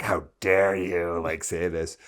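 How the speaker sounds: retold indignation, drawn out slowly; imitating your younger, indignant self; mock livid. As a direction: stretch out a mildly outraged self-quote. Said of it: "I was, like, livid".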